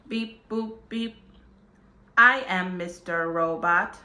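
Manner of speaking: lightly voiced robot voice; beeping robot voice, lightly done.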